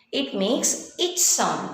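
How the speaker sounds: slow, its said as a crisp ch sound; its, a clear ch at the end. Shown as a demonstration. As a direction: spell out the its ending. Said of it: "C H when it comes at the end".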